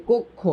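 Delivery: কক্ষ split as "kok ... kho"; correct pronunciation shown. Shown as a demonstration. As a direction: sound out কক্ষ in two syllables. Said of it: "তখন এভাবে লিখতে হবে".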